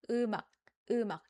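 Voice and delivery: 음악 as eu-mak with an unreleased final k; stopped ending. Shown as a demonstration. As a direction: cut off the end of 음악 without popping the k. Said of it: "a stopping sound".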